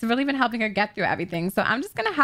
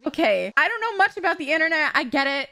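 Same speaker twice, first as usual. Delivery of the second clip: rude scolding; 2 semitones higher than usual. Pretend. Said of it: "Give him a rude introduction".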